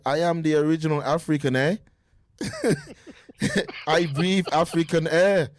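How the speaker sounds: mock South African accent, slowed; imitating a South African boxer's accent; a light South African accent. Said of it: "How's that South African accent".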